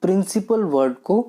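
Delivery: teacher repeating "principal word" with emphasis; stressed key term. Shown as a demonstration. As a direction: press on "principal word" again for the class. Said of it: "जोर दे के बोल रहा हूँ".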